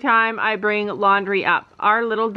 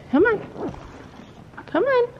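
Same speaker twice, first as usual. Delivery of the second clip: 1 coaxing call; 11 semitones higher, 3 dB quieter, slower than usual. Real, not acted. Calling animal, rising pitch.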